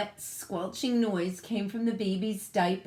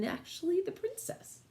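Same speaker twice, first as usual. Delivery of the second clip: whispered aside; 10 semitones higher, 5 dB quieter than usual. Real, not acted. Teacher's aside about the pig.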